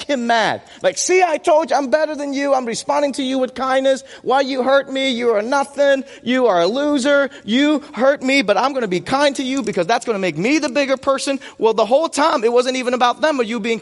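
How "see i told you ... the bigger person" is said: smug self-righteous. Retold or imitated. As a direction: play the smug one who feels superior. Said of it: "We interpret that as, like".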